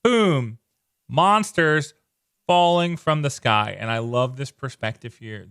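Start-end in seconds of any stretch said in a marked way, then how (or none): 0.0-3.8 loud and high with big excitement; excited reaction. Retold or imitated. A comic reader reacting to monsters falling, hyped. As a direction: burst out like a kid seeing monsters drop.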